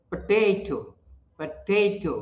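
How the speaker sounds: पोटैटो with a long, stressed middle "tay"; stress on second syllable of पोटैटो. Shown as a demonstration. Teacher models पोटैटो for learners, second syllable stressed. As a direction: lean on the middle syllable of पोटैटो, first one short. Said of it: "Potato is stressed on the second syllable".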